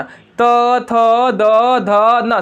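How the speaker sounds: त, थ, द, ध, न with the tongue striking the teeth; dental consonants. Shown as a demonstration. Teacher showing pupils where the teeth come in, dental articulation. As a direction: tap the teeth on each of त, थ, द, ध, न. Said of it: "सब में दांत पटका रहा है".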